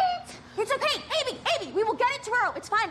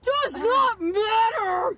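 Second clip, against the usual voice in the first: fake older voice; 4 semitones higher, much slower than usual. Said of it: "that voice did not make you sound older".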